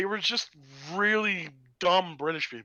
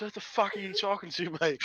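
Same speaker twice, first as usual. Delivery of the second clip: mock South London accent; softer South London sidekick voice; Watson; 3 semitones higher, 4 dB quieter than usual. Dumb Watson questioning Holmes, in mock South London. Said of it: "Watson goes".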